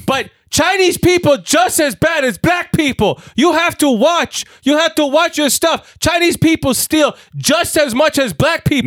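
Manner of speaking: high, slow, hectoring mock Chinese accent; terrible Chinese accent. Woman lecturing customer about unattended laptop, high slow mock Chinese accent. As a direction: imitate a scolding woman in a bad Chinese accent, each phrase drawn out. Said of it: "I'm doing a terrible Chinese".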